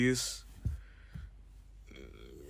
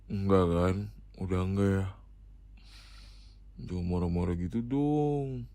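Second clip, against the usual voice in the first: ordinary delivery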